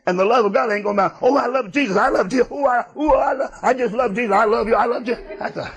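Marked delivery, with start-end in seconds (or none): 1.2-5.2 mock gushing believer. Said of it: "You've seen them".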